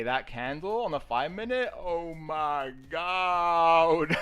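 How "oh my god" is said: slow, drawn-out oh my God; stunned oh my God. Real, not acted. Marvelling at the five-minute candle, slow and awed. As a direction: stretch it out in awe.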